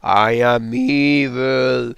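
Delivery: hammy cartoon villain gloating; mustache twirling villain. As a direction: ham up a moustache-twirling baddie. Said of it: "No, he's an evil".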